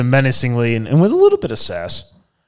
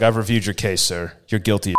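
TV lawyer; 7 semitones lower, 6 dB quieter than usual. Retold or imitated. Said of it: "a lawyer Law and Order moment".

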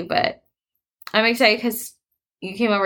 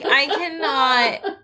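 retold exasperation; 4 semitones higher, much slower than usual. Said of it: "I'm like".

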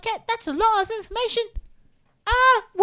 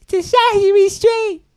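put-on English baby voice; 6 dB louder, slower than usual. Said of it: "You sound like an English baby".

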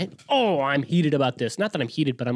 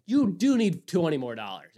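laughing; 3 semitones higher, slower than usual. Retold or imitated. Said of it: "was like".

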